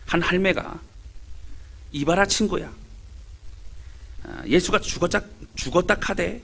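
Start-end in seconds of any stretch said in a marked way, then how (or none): 1.9-6.4 lightly voiced Gyeongsang dialect old woman; a hint of a Gyeongsang grandmother gossiping; Gyeongsang granny dialect. Preacher reading a joke as a Gyeongsang granny, mild Gyeongsang dialect. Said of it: "경상도 할매들의 대화입니다".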